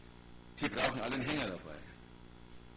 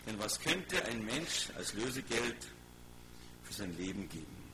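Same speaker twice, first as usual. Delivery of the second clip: emphatic Bible reading, raised then settling; preacher reading scripture aloud with weight; 5 semitones higher, 4 dB louder than usual. Acted. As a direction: proclaim the verse to a congregation, easing down at the end. Reads scripture aloud to congregation.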